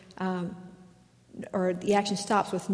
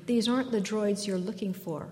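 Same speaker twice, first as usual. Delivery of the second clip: calm. Retold or imitated. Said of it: "Obi-Wan says again calmly".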